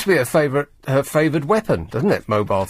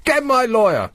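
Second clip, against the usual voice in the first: higher, shrill-free pretend scream; mock scream; 10 semitones higher than usual. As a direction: scream it like a diva into a phone. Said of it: "scream that in a mobile phone".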